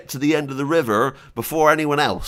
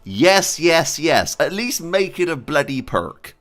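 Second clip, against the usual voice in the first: emphatic begging, building to loud yeses; impassioned plea; 2 semitones higher, 5 dB louder than usual. Real, not acted. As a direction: plead with the developers, half laughing. Begs developers for a wished feature.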